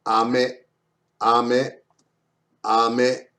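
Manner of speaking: "Ame" with the second syllable "me" stressed. Shown as a demonstration. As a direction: lean gently on the end of "Ame". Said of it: "A little bit stress on the me".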